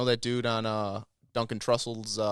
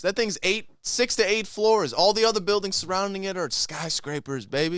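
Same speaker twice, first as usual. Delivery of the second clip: high, loud, hyped-up conspiracy preacher; conspiracy guru voice; 10 semitones higher, 6 dB louder than usual. Pretend. Ranting to his podcast friends about Tartaria, high and loud. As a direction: sell the secret history like a street prophet, leaning on every word.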